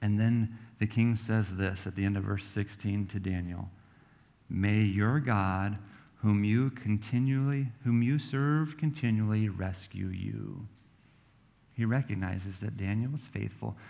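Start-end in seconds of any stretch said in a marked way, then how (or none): 4.5-10.7 tender blessing. Acted. King's blessing over Daniel.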